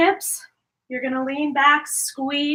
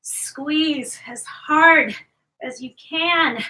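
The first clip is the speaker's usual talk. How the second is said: strained whisper; 2 semitones higher, 3 dB louder, much slower than usual. Real, not acted. Coach cueing during hard exercise.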